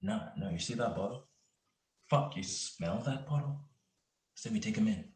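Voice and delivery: hushed conferring. Acted. Cop plotting with partner aside, hushed conferring. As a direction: keep it down so he won't overhear. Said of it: "keep whispering in the corner".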